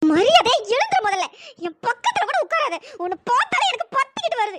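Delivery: hurt, forceful orders to leave; angry dismissal. Acted. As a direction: order him away in disgust. Angrily orders him away.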